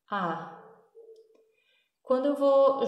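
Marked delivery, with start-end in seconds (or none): 0.1-0.6 "a" as a short reduced schwa; just a tiny "a". Shown as a demonstration. Teacher isolates the reduced vowel for students. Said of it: "ele fica a".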